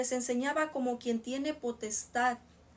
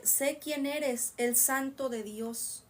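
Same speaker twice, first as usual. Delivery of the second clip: demonio; much slower than usual. Acted. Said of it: "demonios sabían".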